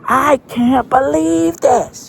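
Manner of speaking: put-on hysterical kid voice. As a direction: spiral into a kid's meltdown. Kid going crazy.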